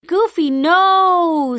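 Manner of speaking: high, slow squawky duck voice; Donald's squawk. A narrator's reading. Donald warns Goofy, slow squawky cry. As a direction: Donald calls out to stop Goofy, high and stretched. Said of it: "says Donald".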